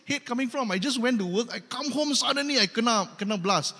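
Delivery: puzzled, half-laughing; baffled husband. Retold or imitated. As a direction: play the husband who just came home and got blasted. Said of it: "So he's thinking".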